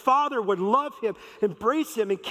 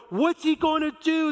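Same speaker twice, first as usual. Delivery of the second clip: crowd gasp; 8 semitones higher, 4 dB louder than usual. Retold or imitated. Crowd gasps at party.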